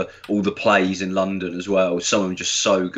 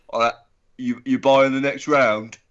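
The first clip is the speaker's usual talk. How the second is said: put-on older bloke; 3 dB louder than usual. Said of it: "like an older bloke".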